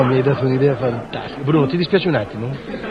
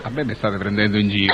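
trying not to laugh; 7 semitones lower than usual. Real, not acted. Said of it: "Non ridere!".

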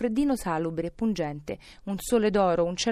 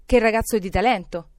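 loud, delighted praise; exclaiming; 2 semitones higher, 7 dB louder than usual. A narrator's reading. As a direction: exclaim with admiration. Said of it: "esclamò Scrooge".

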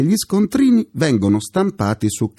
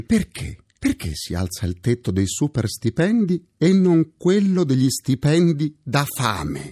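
ordinary delivery

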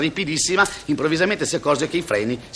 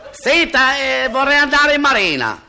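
high, eager little voice of a naive recruit; a lightly voiced naive young man, louder and higher; timid recruit; 9 semitones higher, 4 dB louder, slower than usual. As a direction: play the clueless young recruit, pitched up. Recruit asks at military office.

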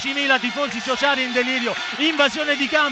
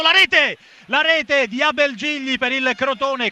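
excited goal call; slower than usual. Real, not acted. Goal call in radio commentary.

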